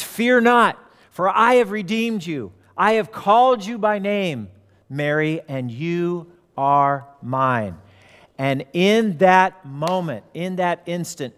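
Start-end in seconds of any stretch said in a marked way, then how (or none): 0.0-7.8 Jesus. Retold or imitated. Jesus calls Mary by name, raised proclamation slowing to a close. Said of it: "He says".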